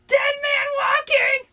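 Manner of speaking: slow, high-pitched full shout; screamed. A narrator's reading. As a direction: scream it out, drawing out each word. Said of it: "I screamed".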